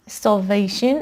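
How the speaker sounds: starvation stressed on the middle "va"; stress on VAY. Shown as a demonstration. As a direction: lean on VA in starvation.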